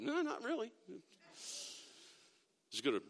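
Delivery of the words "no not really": imitating a cheeky listener through a laugh, much softer; laughing mock reply. Pastor voicing an imagined congregant's reply, laughing. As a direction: toss back the joke answer while laughing. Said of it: "waiting to see if anybody was gonna go".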